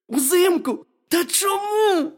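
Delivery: very high, loud questioning squeal; astonished hedgehog. A narrator's reading. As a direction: cry out in disbelief as the hedgehog.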